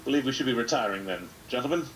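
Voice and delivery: lightly British goblin taking polite leave; formal, hesitant British accent. Acted. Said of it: "very British sounding".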